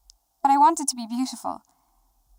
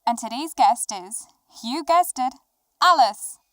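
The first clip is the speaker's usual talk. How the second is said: talk-show host intro; 3 dB louder than usual. Pretend. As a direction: pretend host announcing the guest, pausing before the reveal. Opens a pretend interview show.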